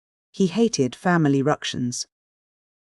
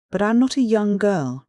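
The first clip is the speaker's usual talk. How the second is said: retort; 7 semitones higher, 3 dB louder than usual. A narrator's reading. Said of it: "retorted Valancy, uncrushed".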